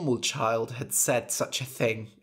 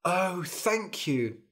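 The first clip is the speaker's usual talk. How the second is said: high, slow grateful sigh; relieved thanks; 6 semitones higher, slower than usual. Acted. King thanking the fairy for the mirror, relieved thanks. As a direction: breathe out heartfelt gratitude.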